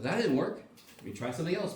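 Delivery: easygoing problem-solver, acted; unbothered trial and error. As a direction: shrug off the failed try, lightly voiced. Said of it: "and you're like".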